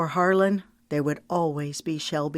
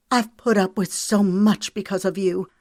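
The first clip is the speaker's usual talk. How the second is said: raised voice; 4 semitones higher, 5 dB louder than usual. Acted. Mary Kate confronting Harlan.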